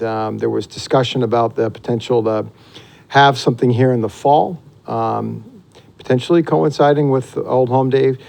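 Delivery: usual speaking voice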